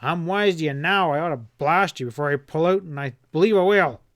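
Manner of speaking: shouting. Acted. Boss shouting threats at his bungling partner. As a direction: threaten him at full voice. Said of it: "Hanlon shouted".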